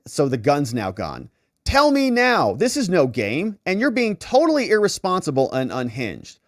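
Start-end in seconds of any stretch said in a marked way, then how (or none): 1.6-6.4 mock angry demand. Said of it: "angry text voiced".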